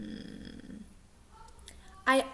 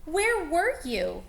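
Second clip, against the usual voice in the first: put-on kids crying out; 5 semitones higher than usual. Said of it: "cried all the kids".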